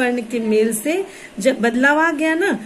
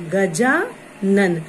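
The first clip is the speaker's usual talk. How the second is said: drawn-out word; 3 semitones lower, much slower than usual. Shown as a demonstration. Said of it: "अ और आ".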